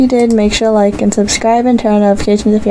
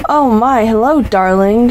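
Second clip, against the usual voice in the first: put-on posh accent. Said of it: "she proclaims in a posh accent".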